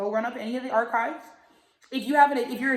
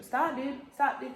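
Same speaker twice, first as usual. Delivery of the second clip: scolding the dog; 3 semitones higher than usual. Real, not acted. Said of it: "I hate that I sound like that to a dog".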